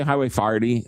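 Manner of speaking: "Farty" for forty, with an "ar" vowel; St. Louis pronunciation. Shown as a demonstration. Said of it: "what do you say?".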